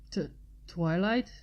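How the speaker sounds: hesitant, stumbling start on the name; unsure, a little timid question; uncertain. Acted. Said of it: "he said uncertainly".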